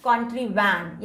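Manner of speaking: "contrivan" with the last syllable "van" set out to rhyme with "plan"; "contrivan", cut short on "van" to match "plan"; rhyming syllable highlighted. Shown as a demonstration. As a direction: say "contrivan" ending on a clear "van", as a memory rhyme. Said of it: "दोनों same rhyming है".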